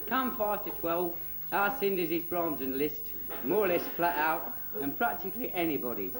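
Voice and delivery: cheeky fairy-tale telling for a grown-up crowd; children's storyteller. Acted.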